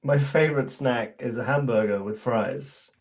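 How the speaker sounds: crisp British English accent, slow and careful. Shown as a demonstration. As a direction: read it in your British accent. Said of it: "in your British accent".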